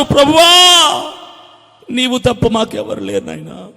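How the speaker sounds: high, loud drawn-out cry to God. Acted. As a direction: act out slaves pleading for deliverance. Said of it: "They were crying out". (గొంతెత్తి దేవునికి మొరపెడుతూ)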